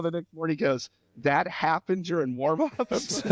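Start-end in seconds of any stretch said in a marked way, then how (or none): 1.2-3.2 slow, laughing through the coach's question; laughing disbelief. Retold or imitated. Retelling the coach's shock at the injury, laughing. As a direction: let the laugh break into it.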